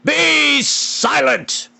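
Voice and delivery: high, slow, loud royal bellow. Acted. King bellowing at quarrelling lords, slow and loud. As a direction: command silence, drawn out. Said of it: "bellowed Smoit".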